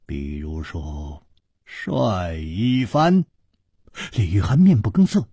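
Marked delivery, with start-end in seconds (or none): 0.0-3.2 slow, soft and offhand; a slow, quiet, unbothered reply; said calmly. A narrator's reading. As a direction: drop it lightly, in no hurry. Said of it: "楚留香淡淡地说".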